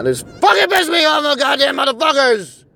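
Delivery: fed-up yell at the game makers; getting mad. Real, not acted. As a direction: let the anger boil over into a shout. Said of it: "I'm fucking getting mad now".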